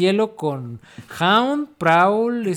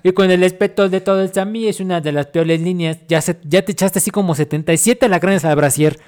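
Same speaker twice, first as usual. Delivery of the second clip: loud commanding general reading; 6 dB louder than usual. Acted. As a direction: announce it like an army general. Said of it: "que lo lea el general".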